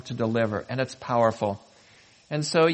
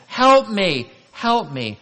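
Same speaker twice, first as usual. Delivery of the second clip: loud, high cry for help, easing off; calling out; 6 semitones higher, 8 dB louder, slower than usual. Acted. Someone beside the road pleading, calling out. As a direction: call out urgently, then less forcefully. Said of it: "calls out to you".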